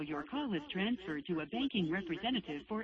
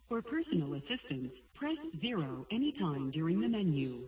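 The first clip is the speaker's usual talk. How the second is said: phone menu voice. Real, not acted. Automated bank phone menu.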